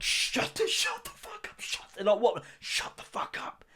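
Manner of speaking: unvoiced urgent whisper; hissed hush. Dad hushing his sons in front of the daughter, whispered. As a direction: hush them so she won't hear.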